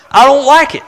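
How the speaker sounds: laughing. Real, not acted. Laughing admission of discomfort.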